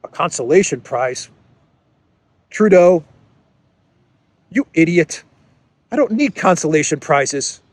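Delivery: hammed-up furious German leader; mock angry Olaf. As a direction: chew out Trudeau like a cheated ally. Olaf angry reply in skit.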